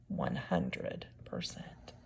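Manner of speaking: a slow whispered ending. A narrator's reading. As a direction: breathe the last words slowly. Closing line softly.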